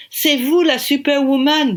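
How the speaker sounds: a British director praising her; French with a British accent. Acted. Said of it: "avec son accent british".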